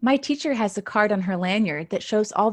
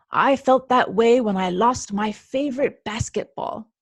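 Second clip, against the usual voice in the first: a touch louder, rueful grandpa; 4 dB louder than usual. Acted. Grandpa telling Mouse about his lost ball, rueful. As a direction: remember it like a wistful grandpa.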